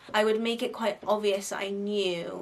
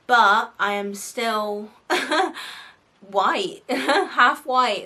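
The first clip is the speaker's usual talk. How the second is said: laughing admission; 2 semitones higher, 8 dB louder, much slower than usual. Real, not acted.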